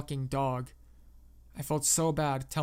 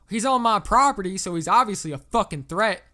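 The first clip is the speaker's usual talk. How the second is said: put-on loud, high, angry southern accent; pissed-off southerner; 5 semitones higher, 9 dB louder than usual. A narrator's reading. Southern caller answers whether the trespasser is a threat, pissed off. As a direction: snap back at the operator, loud and southern. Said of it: "He sounded pissed as fuck".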